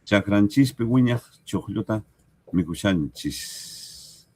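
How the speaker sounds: reading the southern form to the class, a clear demo; southern variant. Shown as a demonstration. Variante del sur. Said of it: "O chakranchikpi wiñaj choqlluta".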